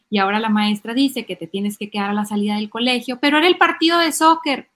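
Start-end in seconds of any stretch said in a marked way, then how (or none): 3.2-4.7 mock kid protest, high and loud; protesta infantil. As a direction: plead loudly like a disappointed child. Niño protesta por la consecuencia. (protesta de niño, aguda y fuerte)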